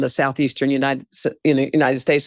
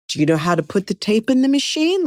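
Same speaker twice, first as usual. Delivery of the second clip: put-on lightly condescending, as if to a child; mock talking-to-a-child question; 5 semitones higher, faster than usual. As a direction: imitate a patronizing boss, higher and quicker. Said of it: "Like I was a child".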